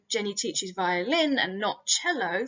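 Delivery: "violin" picked out with a swooping pitch, set against "cello"; contrastive stress on violin. Shown as a demonstration. Lecturer contrasting violin with cello, emphatic stress on "violin". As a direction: lean on "violin" as the correction, then "cello" as the rejected option. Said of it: "create a contrastive effect around the word violin".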